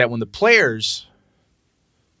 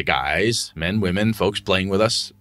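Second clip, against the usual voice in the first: coaxing game master; 5 semitones lower than usual. Acted. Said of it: "shake 'em a little bit and say".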